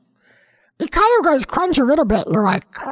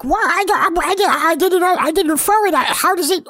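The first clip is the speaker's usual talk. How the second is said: baffled; 5 semitones higher than usual. Acted. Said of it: "You're like".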